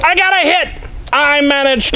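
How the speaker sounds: high, loud cheer at a hit; excited shout. Real, not acted. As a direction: yell it out with joy.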